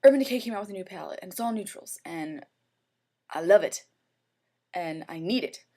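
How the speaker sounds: fast, loud, gushing retold plea; telling her boyfriend about the new palette, fast and loud; excited. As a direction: rush it out like a kid begging. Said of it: "I was like".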